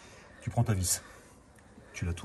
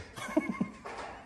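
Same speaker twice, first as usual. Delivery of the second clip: laugh; 4 dB quieter than usual. Real, not acted. Laughs after excusing his throat.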